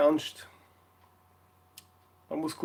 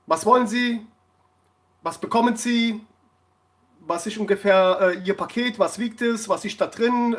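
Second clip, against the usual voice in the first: higher, louder string of curt questions; brusque official; 4 semitones higher, 4 dB louder than usual. Retold or imitated. Customs clerk interrogating the vlogger, mock brusque. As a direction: grill him like a bored clerk. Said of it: "Und dann sagt sie so".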